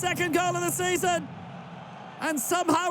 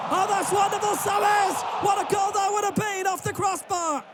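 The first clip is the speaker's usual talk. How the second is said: long goal yell; 4 semitones higher than usual. Real, not acted. Near miss off the crossbar.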